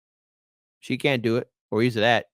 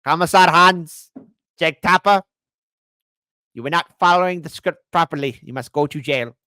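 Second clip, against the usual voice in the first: commissar voice; 5 semitones higher, 7 dB louder than usual. Acted. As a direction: bark the orders like a commissar. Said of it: "He's everybody's favorite commissar".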